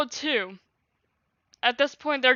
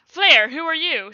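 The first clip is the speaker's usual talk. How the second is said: higher and louder defiant yell; yelled back; 5 semitones higher, 8 dB louder than usual. Acted. Fleur yelling back at the booming voice, loud. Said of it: "she yelled back".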